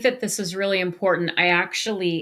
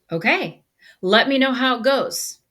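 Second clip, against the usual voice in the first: not snarky; 5 semitones higher, 3 dB louder than usual. Retold or imitated. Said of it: "Not snarky, just".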